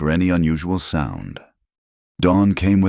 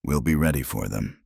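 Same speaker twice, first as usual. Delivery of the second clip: quiet, icy confidence; coldly; 4 semitones lower, 5 dB quieter than usual. Acted. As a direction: lower and softer, a cold smile you can hear. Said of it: "He smiled coldly".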